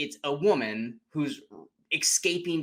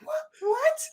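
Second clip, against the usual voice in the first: hammed-up shocked double take; mock disbelief. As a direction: yelp it in disbelief. Piper in disbelief.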